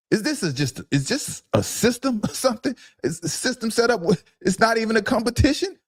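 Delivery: high-pitched, disbelieving string of questions; incredulous questioning. Real, not acted. Host questioning the third string quarterback pick, incredulous. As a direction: pitch way up, can't believe this depth chart.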